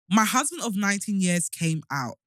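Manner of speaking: reading through a retainer; words slurred by a retainer; wearing a retainer. Real, not acted. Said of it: "My sh-, retainers are fucking me up".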